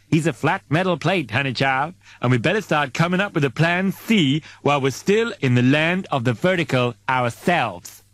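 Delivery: a sassy crewmate spelling out the bad news. Sassy crewmate voiced in story.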